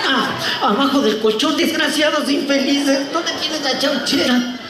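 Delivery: high, drawn-out granny wail; slow, high put-on old-woman voice. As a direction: drag it out as a mock old lady. Old woman mocked in robbery scene.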